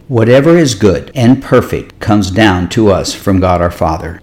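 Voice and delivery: measured, slightly slowed scripture reading. Real, not acted. Pastor reads scripture to listeners so it soaks in, a little slow. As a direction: read it a little slowly, letting it soak in. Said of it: "I'm gonna read a little bit slow".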